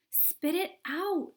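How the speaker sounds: high, slow, loud order; urgent command. Acted. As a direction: order her to spit. Wonka urgent.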